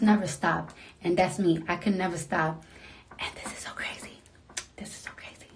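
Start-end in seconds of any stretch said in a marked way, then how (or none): 3.2-5.5 hushed, breathless whisper of disbelief; awed whisper. Real, not acted. Up late while her daughter sleeps, whispering in awe. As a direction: whisper it like you can't believe it. Late night, overwhelmed with joy.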